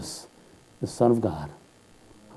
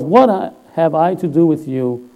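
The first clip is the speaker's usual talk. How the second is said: retold outcry, pitched up; higher, raised voice quoting an outcry; loud cry; 3 semitones higher than usual. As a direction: call it out, imitating the man's cry. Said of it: "he cried out in a loud voice".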